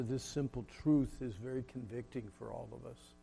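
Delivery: subdued, measured pastoral prayer; closing prayer. Real, not acted. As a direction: lead them gently into prayer, with long pauses.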